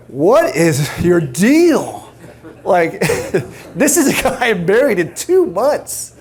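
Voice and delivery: mock wife through laughter. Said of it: "She's like".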